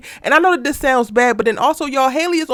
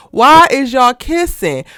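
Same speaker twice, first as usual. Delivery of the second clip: slow, loud, exasperated question; 5 dB louder, slower than usual. Real, not acted. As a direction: drag it out in disbelief.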